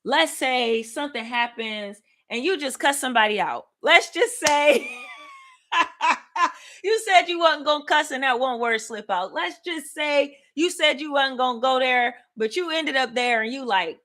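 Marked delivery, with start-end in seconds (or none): 3.8-9.3 higher, laughing as she speaks; laughing through it. Real, not acted. Preacher joking with congregation, laughing. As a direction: chuckle your way through the line.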